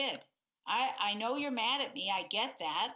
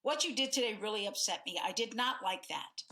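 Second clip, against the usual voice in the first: quick, pressed and upset; mildly heated, hurried complaint. Shown as a demonstration. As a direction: push the complaint out fast. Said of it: "both of those tones".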